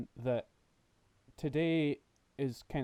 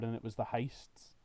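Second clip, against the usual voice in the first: whispering; 7 dB quieter than usual. Real, not acted. Drops to a whisper mid-story.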